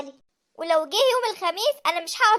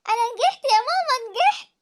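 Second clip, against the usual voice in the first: فرحة بالنجاح; 3 semitones higher, 3 dB louder than usual. Acted. تبشر أمها بالنجاح.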